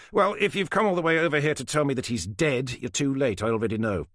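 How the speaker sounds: lightly voiced smug older man. Falcon's held voice.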